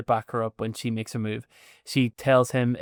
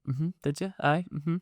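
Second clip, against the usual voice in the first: smug; 4 semitones higher, 4 dB quieter than usual. Retold or imitated. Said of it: "really smugly".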